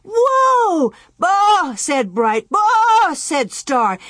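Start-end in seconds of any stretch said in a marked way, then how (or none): 0.0-0.9 high, loud, drawn-out yell. A narrator's reading. Almanzo tries to stop the bolting calves, yelling. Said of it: "yelled Almanzo". 1.2-1.7 high, loud, drawn-out animal bawl; bawling calf. A narrator's reading. Star bawls as the calves bolt, loud animal cry. 2.5-3.1 high, loud, drawn-out animal bawl; bawling calf. A narrator's reading. Star bawls as the calves bolt, loud animal cry.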